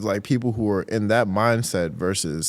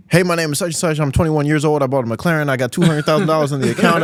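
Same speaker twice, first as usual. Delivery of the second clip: a hint of a bragging influencer, a bit higher and louder; mock show-off; 4 semitones higher, 4 dB louder than usual. Host mimicking a bragging Instagram flexer, mock show-off. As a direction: lightly mimic a flexing rich kid. Mocking social media flexers.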